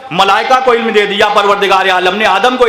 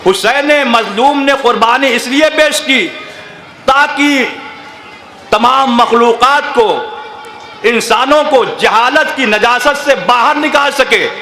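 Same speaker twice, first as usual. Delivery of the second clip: impassioned preaching shout; 2 semitones higher than usual. Real, not acted. Preacher rousing the mourners about Husain's sacrifice, shouting. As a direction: hammer each phrase home to the hall.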